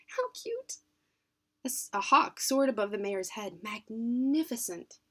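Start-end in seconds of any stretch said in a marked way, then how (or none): 0.1-0.8 murmured. Acted. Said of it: "she murmured". 3.6-5.0 awed. Acted. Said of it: "he found himself saying".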